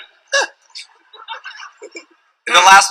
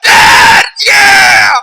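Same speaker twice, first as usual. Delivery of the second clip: put-on high, loud whooping kid; excited whoop; 8 dB louder, much slower than usual. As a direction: cheer it like a thrilled kid. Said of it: "He's like".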